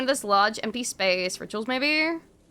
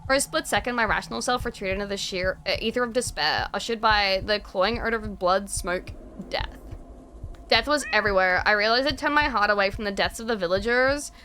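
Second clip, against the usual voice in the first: dark story narration. A narrator's reading.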